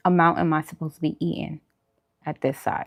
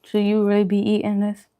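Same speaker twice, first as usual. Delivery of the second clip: inner critic voice. Retold or imitated. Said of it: "Like, um".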